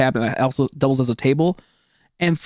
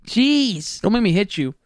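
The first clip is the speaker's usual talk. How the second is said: mock threat; 5 semitones higher, slower than usual.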